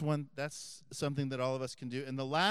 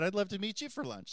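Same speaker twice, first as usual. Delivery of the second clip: pitched up, keen and eager; eager reply; 6 semitones higher, faster than usual. Retold or imitated. Priest eagerly accepting his friends' lunch invitation, pitched up. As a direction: jump at the invitation happily. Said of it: "I said".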